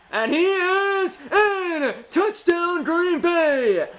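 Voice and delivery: high, drawn-out, delighted cry; real joy, laughing through the call; touchdown call. Real, not acted. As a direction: celebrate the score like a broadcaster. Scores first touchdown.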